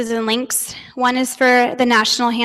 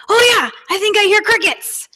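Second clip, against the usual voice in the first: higher, laughing through it; laughing kid voice; 9 semitones higher than usual. Retold or imitated. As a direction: play the boy while laughing.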